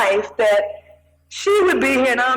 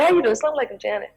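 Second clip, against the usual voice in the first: calm greeting; much faster than usual. Pretend. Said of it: "you wouldn't just sit there".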